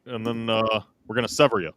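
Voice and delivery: lightly voiced Obama with pauses; Obama impression. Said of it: "I can't do an Obama".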